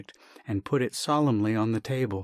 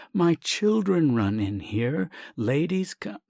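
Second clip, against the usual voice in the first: higher, slow flustered plea; flustered protest; 6 semitones higher, slower than usual. Acted. Doctor objecting again to Sasha, higher flustered plea. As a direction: plead the scandal again.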